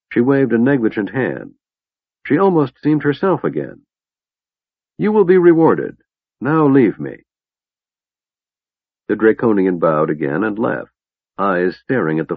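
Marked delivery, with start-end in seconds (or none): 5.0-7.2 loud, high, imperious; commanding High Lord. Acted. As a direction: dismiss him like a warlord.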